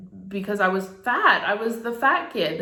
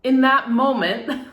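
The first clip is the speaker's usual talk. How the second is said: choked up, voice pitched higher; trying not to cry; 4 semitones higher, 4 dB louder than usual. Real, not acted. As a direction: push the words out through rising tears. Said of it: "I'm trying not to cry".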